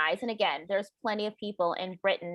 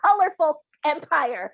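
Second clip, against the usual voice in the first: the mocking royal voice winding down but still raised; 5 semitones higher, 5 dB louder than usual. Mocking the royals' boast about their empire, still raised. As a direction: finish the smug royal boast.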